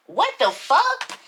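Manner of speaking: high, slow, outraged scream. Acted. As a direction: stretch out the shock of betrayal. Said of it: "I screamed".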